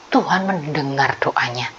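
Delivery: soft, low whisper; hushed storytelling whisper. A narrator's reading. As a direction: whisper it like a secret to children. Storyteller hushes at key moment.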